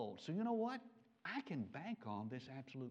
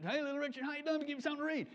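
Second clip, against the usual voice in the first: high, louder hail to a celebrity; calling out; 12 semitones higher, 5 dB louder, much faster than usual. Retold or imitated. Preacher hails a singer in an airport, calling out high. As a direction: call out eagerly to catch someone passing.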